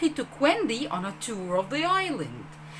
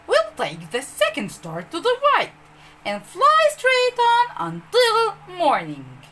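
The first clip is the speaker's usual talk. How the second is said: put-on higher and louder, a boy calling across the sky; 10 semitones higher, 7 dB louder than usual. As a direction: call it out high and ringing as you lead. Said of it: "Peter called".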